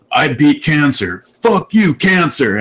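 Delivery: yelling defiance at the camera; retold yell. Friend yelling at his camera, mock shout. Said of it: "yelling that at the camera".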